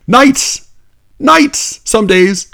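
high, loud outburst of disbelief; incredulous yelp; exasperated. Real, not acted. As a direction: cry out the obvious word. Exasperated correction of poem.

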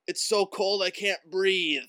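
put-on little kid voice. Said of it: "that's my five-year-old".

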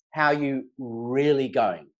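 slow, gentle, really asking; slow down and mean the really; sincere follow-up. Shown as a demonstration. To a shopkeeper, asking again, slow and sincere. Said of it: "the power of the second question".

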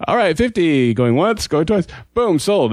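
auctioneer. Retold or imitated. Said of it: "doing the auctioneer thing".

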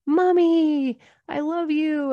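put-on child's voice calling Mommy; little boy voice. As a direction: become a ten-year-old boy hugging mom. Little son voiced in dream story.

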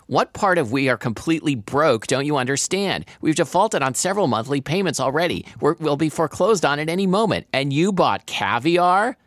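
scold, then stretch out the final question; exasperated scolding. A narrator's reading. Daughter berating mother over caviar, exasperated.

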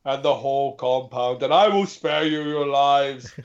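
slow, menacing warlord demand, lightly voiced; a hint of a wasteland tyrant offering terms; Lord Humongous. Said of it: "when I do my Lord Humongous accent".

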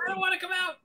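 put-on high whiny baby voice; newborn voice. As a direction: complain like a baby. Playing the newborn.

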